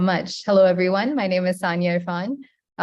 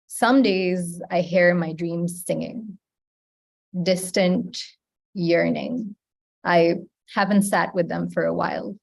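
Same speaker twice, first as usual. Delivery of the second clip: poem recitation. Acted. Poet reciting her poem to the open mic, measured. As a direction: let each image land, unhurried.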